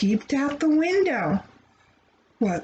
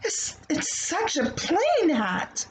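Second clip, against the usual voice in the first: disappointed; 6 semitones higher than usual. Acted. Disappointed child voice.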